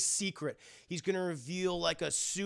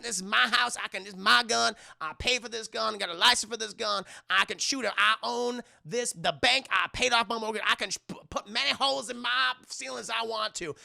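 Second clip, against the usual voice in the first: raised, insistent mock tirade; Madea's indignant rant; 4 semitones higher, 5 dB louder than usual. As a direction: assert ownership in acted indignation. Acting Madea defending her shooting.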